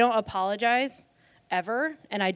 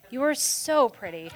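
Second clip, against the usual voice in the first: veiled insult; 4 semitones higher than usual. Retold or imitated. College put-down that people won't pick up on, fake compliment. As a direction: fake compliment, pitched higher. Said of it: "what we said in college as an insult".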